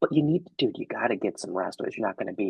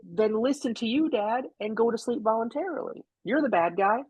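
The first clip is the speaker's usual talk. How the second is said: put-on high, pleading child's whine; imitating a defiant little kid; whiny kid voice; 14 semitones higher than usual. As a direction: play the kid who won't go to bed. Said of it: "the kid is just like".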